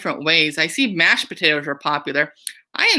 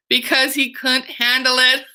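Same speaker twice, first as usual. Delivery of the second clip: giggling out the pun, pitched up; chuckling as she tells the Handel pun; laughing through the punchline; 6 semitones higher than usual. Real, not acted. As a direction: deliver the joke while laughing at it.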